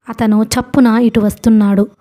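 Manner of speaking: ordinary delivery, nothing marked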